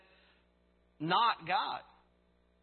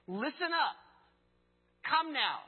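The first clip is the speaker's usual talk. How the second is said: louder, higher call to attention; emphatic call; 6 semitones higher, 4 dB louder than usual. Shown as a demonstration. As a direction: call out like grabbing a crowd's attention. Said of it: "It's emphatic".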